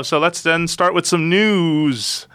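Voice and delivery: slow, eerie drawn-out ghost voice. Pretend. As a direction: moan it like a spooky ghost. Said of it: "said that like a ghost".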